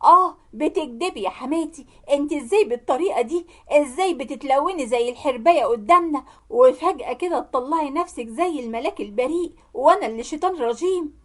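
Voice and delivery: half-shouted angry accusation; screaming accusation. Acted. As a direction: lash out, short of a real scream. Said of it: "وصرخت فيهم كلهم وقلت".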